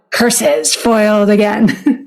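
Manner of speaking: slow, put-on villain grumble; sneering panto villain. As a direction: hiss it like a beaten melodrama villain. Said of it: "a villain".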